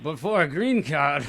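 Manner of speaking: slow mock gangster drawl; joining in as a lightly hammed-up movie gangster; Scarface impression. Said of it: "a Chris Tucker Scarface impression".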